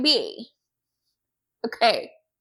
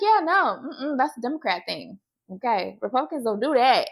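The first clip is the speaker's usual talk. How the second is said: quick, dismissive mock certainty; imitated conviction; faster than usual. Imitating a Republican man denying it, brisk conviction. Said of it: "he said it with such conviction".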